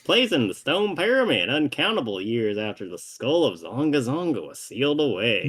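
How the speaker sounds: lightly drawled storyteller voice; theatrical villain narrator. Acted. Villain recounting the legend of the sealed skull, theatrical. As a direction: tell it as a grand legend.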